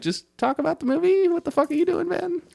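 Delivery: fed-up viewer snapping at mom; mock exasperation. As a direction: play the fed-up friend. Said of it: "everybody's thinking".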